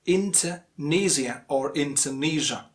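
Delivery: Indonesia ending NEE-zee-uh, then NEE-zhuh; two correct variants. Shown as a demonstration. Teacher offering both ways, two variants of Indonesia. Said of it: "Again, two ways".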